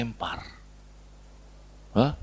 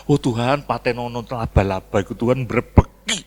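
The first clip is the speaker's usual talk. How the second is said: neighbour's muttered counter-prayer; 3 semitones lower than usual. Retold or imitated. Neighbour praying against the weeper's spiders, understated counter-prayer. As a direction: answer the wailer with a low-key prayer.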